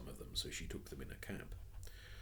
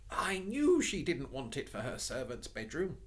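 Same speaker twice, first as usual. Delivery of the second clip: put-on muttering girl; 8 semitones higher, 6 dB louder than usual. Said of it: "muttered Jane".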